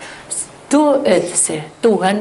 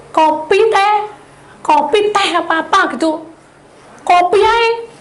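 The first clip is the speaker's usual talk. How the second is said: much higher, louder offhand answer; husband's reply; 12 semitones higher, 5 dB louder than usual. Retold or imitated. Husband to wife choosing coffee, high and loud. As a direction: toss off the choice, high and loud.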